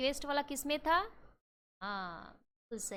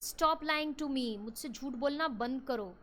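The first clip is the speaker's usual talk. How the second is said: teacher's acted anger; angry demand; slower than usual. Shown as a demonstration. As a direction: accuse the liar sharply. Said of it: "anger में बोल रहे हो".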